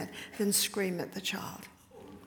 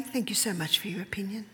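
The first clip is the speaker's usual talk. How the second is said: polite brush-off; faster than usual. Shown as a demonstration. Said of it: "What do you say?".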